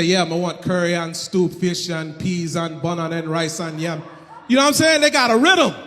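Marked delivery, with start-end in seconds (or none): 0.0-4.0 slow, lilting patois order; sing-song Jamaican ordering. Retold or imitated. Jamaicans order at the restaurant in a slow sing-song patois. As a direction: lilt the order like a little song. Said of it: "ordering like a song".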